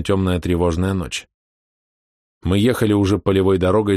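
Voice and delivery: ordinary delivery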